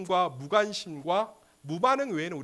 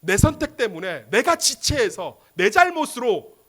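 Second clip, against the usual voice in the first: loud, drawn-out lament; acted remorseful outcry; anguished self-blame; 6 semitones higher, 9 dB louder, slower than usual. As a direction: hammer each phrase as an accusation against oneself. Acts out self-blaming parent.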